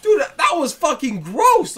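drawn-out disgust, rising on gross. Real, not acted. Reacting to the movie creep, disgusted. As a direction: groan it out, grossed out.

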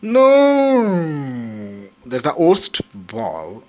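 very loud, high cry of despair; anguished shout. Real, not acted. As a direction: scream no at the ruined shot. Disaster shot in pool game.

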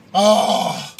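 high furious shout; angry yell. Acted. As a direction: yell at the traffic. Angry driver in traffic.

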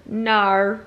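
one-word mock Australian; Australian accent. Shown as a demonstration. Showing off to a friend, dubious Australian accent. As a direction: put on a rough Australian accent. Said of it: "I can do Australian".

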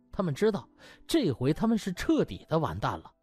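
usual speaking voice

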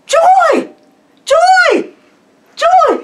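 very high, ringing full shout; loud, exultant high-pitched cry; joyful shouting. Retold or imitated. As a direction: holler it to the sea and sky. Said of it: "he shouted to the seagulls".

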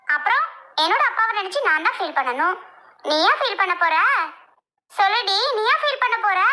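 snappish, resentful challenge; rude retort. Acted. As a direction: throw it back at her rudely. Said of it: "என்னடி இப்படி ரூடா பேசுற?". (முரட்டுத்தனமான எதிர்ப்பேச்சு)

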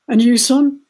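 loud sergeant question; drill sergeant. A narrator's reading. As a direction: call it out like a sergeant. Sergeant reaches narrator.

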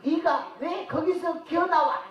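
slow demo line. Shown as a demonstration. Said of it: "이거 한번 할게".

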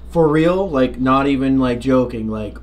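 strained, choked-up throat voice. Real, not acted. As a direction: speak through a tight, choked throat. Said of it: "Dude, you sound choked up".

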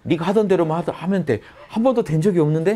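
high, laughing mock of the doubting ego; a jeering inner voice with laughter. Shown as a demonstration. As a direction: sneer at yourself with a laugh. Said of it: "막 이런 게 계속 올라와요".

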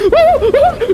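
loud, very high burst of laughter; shriek-laugh after a scare; high startled laugh. Real, not acted. Player reacting to a jump scare, startled laugh.

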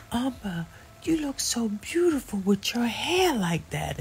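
high, breathy whispered compliment; high hushed whisper, gently admiring. Retold or imitated. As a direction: whisper it tenderly like a sick sister. Sister Tracy's tender compliment quoted.

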